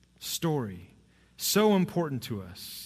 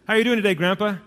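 put-on higher and louder, keen young voice; eager boy's question; 7 semitones higher, 8 dB louder, faster than usual. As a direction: call out cheerfully to grandpa. Asking grandpa questions.

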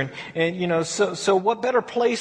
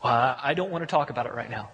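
evasive wife; 8 semitones lower, 4 dB quieter, faster than usual. Retold or imitated. Wife dodges husband's question.

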